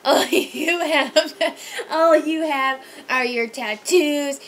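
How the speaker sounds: loud, slow sneering rant with laughs breaking in; mocking drunk insult. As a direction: spit out the insult like a belligerent drunk. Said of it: "then he was like".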